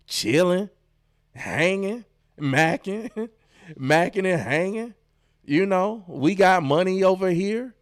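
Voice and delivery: mock what the people say; a light sneer imitating gossiping strangers. Mocking the scammer.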